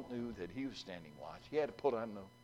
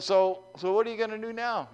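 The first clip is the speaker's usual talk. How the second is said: mild raised call; 10 semitones higher, 8 dB louder than usual. Acted. Pastor asks battered John.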